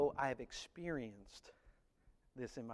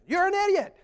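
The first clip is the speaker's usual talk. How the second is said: loud, high mock yell; real loud; 10 dB louder than usual. Preacher imitating the Grinch yelling into his cave, loud. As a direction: bellow it like the Grinch. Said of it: "he starts talking real loud".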